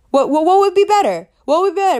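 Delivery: incredulous burst; mock exclaiming. Real, not acted. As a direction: throw it up incredulous. Mocking other sign.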